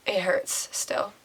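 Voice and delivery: slow, breaking whisper; choked whisper. Real, not acted. A mother confessing her grief to viewers, whispering. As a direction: hold back tears, barely voiced. Tearful confession of miscarriage pain.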